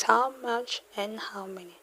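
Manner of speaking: a hushed reminder; whispered. Real, not acted. Teacher whispers the two meanings to students. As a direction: whisper how much and how many. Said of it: "Told you it means two things".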